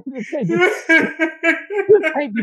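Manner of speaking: slow, laughing disbelief; words breaking into laughter; laughing through words. Real, not acted. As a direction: laugh while you protest. Laughing while retelling reaction.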